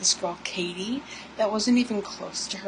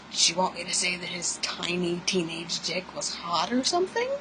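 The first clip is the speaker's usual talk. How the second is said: incredulous. Real, not acted. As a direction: pitch climbing in disbelief. Incredulous rant at age twelve.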